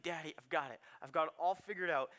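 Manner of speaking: a hint of a kid pitching a plan to dad; scheming little boy. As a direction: lay out the plan like a toddler with a big idea. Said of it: "he's like".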